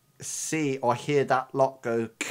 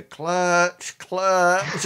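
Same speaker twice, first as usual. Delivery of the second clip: acted urgent prompt, higher and louder; urgent instruction; 5 semitones higher, 5 dB louder than usual. Driver telling the novice at the wheel, urgent instruction. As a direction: repeat it as a raised, drawn-out prompt. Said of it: "like, says to you".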